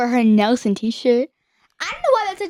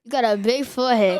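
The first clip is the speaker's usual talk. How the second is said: a poor try at a British accent; attempted British accent; 3 semitones lower than usual. Shown as a demonstration. Teen trying out a British accent for the family, attempted British accent. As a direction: put on a rough British accent. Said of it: "That was your British accent?".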